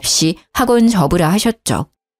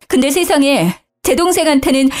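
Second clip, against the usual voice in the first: higher-voiced, wronged wife crying out; angry wailing; 6 semitones higher than usual. A narrator's reading. Wife crying out to her in-laws, angry and higher pitched. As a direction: pour out the betrayal, voice climbing high. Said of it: "저는 화가 나서 울부짖었죠".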